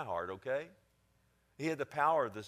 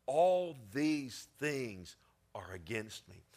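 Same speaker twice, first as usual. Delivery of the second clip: slow hushed whisper of defeat; whispered despair; slower than usual. Acted. Jacob despairing to his sons, whispered. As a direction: breathe it out, beaten. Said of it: "look what he says".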